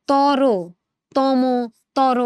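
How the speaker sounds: তর, তম said one by one as "toro, tomo"; final vowel sounded. Shown as a demonstration. Teacher showing how we pronounce these, final vowels sounded. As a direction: sound out the closing o in তর and তম. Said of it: "এরকম করে আমরা উচ্চারণগুলো করি".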